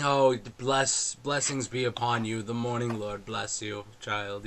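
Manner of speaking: lightly voiced kindly clergyman; a hint of smiling priest. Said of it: "yeah, smiling".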